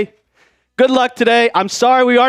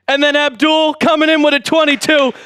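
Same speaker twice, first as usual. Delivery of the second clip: raised, excited announcing voice; hyped donation call-out; 4 semitones higher than usual. Real, not acted. Streamer greeting Abdul's twenty, hyped. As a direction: pitch it up and rally the viewers.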